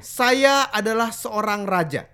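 slow, measured, authoritative king; regal king demo with pause. Shown as a demonstration. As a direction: pause before the next word, like a king. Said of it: "kan lebih berwibawa".

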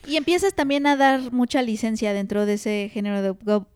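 talking through hiccups; words broken by hiccups; hiccuping. Real, not acted. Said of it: "ya tengo hipo otra vez".

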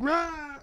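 high-pitched mock baby cry; imitated baby wail. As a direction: wail briefly like a baby, exaggerated. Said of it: "crying like a baby".

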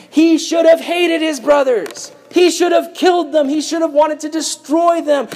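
high-pitched, insistent indignation; impassioned preaching. Real, not acted. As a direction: drive each line home with rising fervour. Preacher builds outrage for Joseph.

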